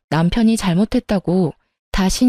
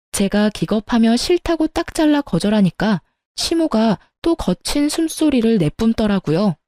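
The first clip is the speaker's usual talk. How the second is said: ordinary delivery, nothing marked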